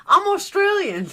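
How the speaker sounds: put-on high, proud little-kid voice; childish claim. Retelling her childhood self's claim, in a high childish voice. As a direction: announce it like a child who is sure. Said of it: "I was like".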